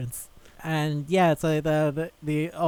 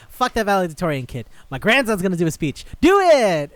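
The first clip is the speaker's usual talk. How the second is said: high, loud bluster building to a full shout; mock command exploding at the end; bossy imitation; 4 semitones higher, 8 dB louder than usual. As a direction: imitate an overbearing grandpa, yelling the final order. Grandpa principal overrules, building to shout.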